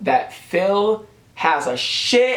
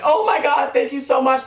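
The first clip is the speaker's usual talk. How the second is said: high, thrilled gushing thanks; excited squeal; 10 semitones higher than usual. Retold or imitated. Streamer squealing thanks to a flood of new viewers, excited. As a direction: squeal your thanks like a fan overwhelmed. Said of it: "freaking out".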